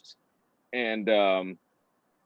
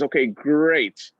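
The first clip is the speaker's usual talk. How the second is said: drawn-out, louder approval; pleased boss; 3 semitones higher, 5 dB louder, much slower than usual. Retold or imitated. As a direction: stretch it out like a satisfied boss. Boss acted, pleased by the answer.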